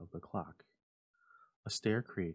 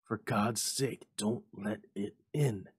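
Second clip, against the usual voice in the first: terrified plea; 3 dB louder, slower than usual. A narrator's reading. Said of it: "cried the old man, trembling".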